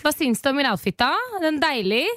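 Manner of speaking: playful Norwegian accent, rising high. Shown as a demonstration. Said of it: "i cocktailbaren på norska".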